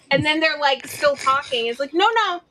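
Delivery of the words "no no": higher, mock-helpful "no, no"; lightly acted meeting interruption; interrupting a muted colleague. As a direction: cut in to stop someone talking on mute.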